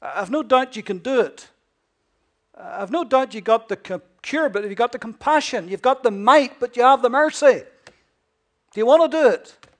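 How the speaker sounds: loud, rising challenge; pleading leper. Retold or imitated. Leper pressing Jesus for compassion, growing loud. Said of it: "He says".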